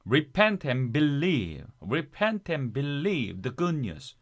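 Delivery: "Repent and believe" run together smoothly; smooth linked reading. Shown as a demonstration. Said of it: "부드럽게 더".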